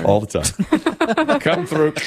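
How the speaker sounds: laughing. Real, not acted. Laughing reply about common mistake.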